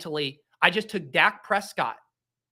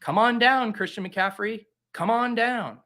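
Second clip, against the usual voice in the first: game show host; 5 semitones higher than usual. Acted. Game-show call for the player.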